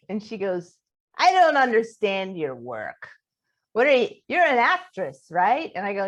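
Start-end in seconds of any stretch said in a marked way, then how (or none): 1.2-5.7 higher, pushy retold questioning; imitated challenge. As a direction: confront them, as the angry roommate. Acting out roommate's challenge.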